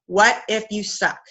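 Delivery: What if you suck? said slowly, letting each word land; slow, weighty repeat. Shown as a demonstration. Coach to new live streamers, slowly repeating the question. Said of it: "so what if you suck?".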